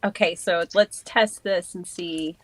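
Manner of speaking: tinny, metallic tin can sound; talking from inside a tin can. Real, not acted. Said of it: "you sound like you're in a tin can".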